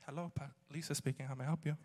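sweet receptionist phone voice, imitated. Friend answers the phone mid-rant, sweet voice. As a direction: drop into a polite, sweet phone greeting. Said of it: "from street to sweet real quick".

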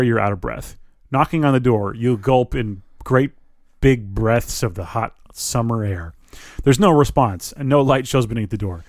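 ordinary delivery

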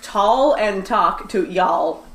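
drawn-out, deliberate words; measured, emphatic slow delivery; slow demonstration. Shown as a demonstration. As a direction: spell out each word slowly. Spelling out phone's Southern autocorrect.

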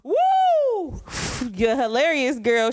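high whoop, then a forced "hilarious"; fake laugh. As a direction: overdo the delight to humor a kid. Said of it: "I fake laugh".

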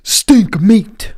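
breathy gross-out whisper. Pretend. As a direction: hiss it like something disgusting. Gross meat joke, whispered.

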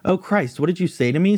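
high, shocked scream. Acted. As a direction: shriek it in shock. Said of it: "screamed Aggie".

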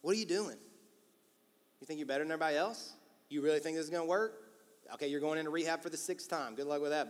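deflating, sceptical put-down; question-mark skeptic. Acted. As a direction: needle someone's hopes with doubting questions. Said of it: "They're question mark people".

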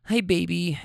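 imitated cutesy puppy-dog greeting; lightly put-on baby-talk sweetness. Passenger greeting a caller on her phone, mock puppy-dog voice. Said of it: "in a puppy dog voice".

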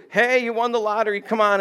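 high, eager congratulations; mock crowd excitement. Preacher plays the crowd congratulating blind men, mock excitement. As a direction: urge them along with playful excitement. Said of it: "they're like".

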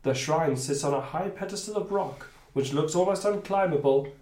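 measured storytelling read; game master narration. Acted. Game master describing the temple to players, measured narration. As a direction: read the new scene out steadily.

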